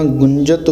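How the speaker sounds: ਗੁੰਜਤ said taut with firm j; ਗੁੰਜਤ drawn tight on the nasal and j; tightened pronunciation. Shown as a demonstration. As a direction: press the middle of ਗੁੰਜਤ tightly. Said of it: "ਕੱਸ ਕੇ ਬੋਲਣਾ".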